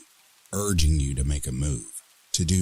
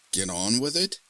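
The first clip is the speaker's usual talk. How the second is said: incredulous echo; 8 semitones higher than usual. Acted. Woman echoing demon incredulously.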